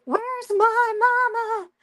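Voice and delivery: high, slow, bleating goat cry; screaming baby goat. Retold or imitated. Baby goat left behind on deck, bleating high for mama. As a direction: cry out like a lost little goat. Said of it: "the goat started screaming".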